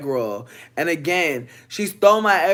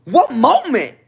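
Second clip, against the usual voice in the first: confused high question; 7 semitones higher, 6 dB louder, slower than usual. Retold or imitated. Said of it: "I said".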